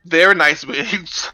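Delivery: "They're" drawn out very slowly as a correction; emphatic self-correction. Real, not acted. Player fixing a pronoun slip, "They're" slow and deliberate. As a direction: stretch "They're nice wigs" deliberately, leaning on "They're".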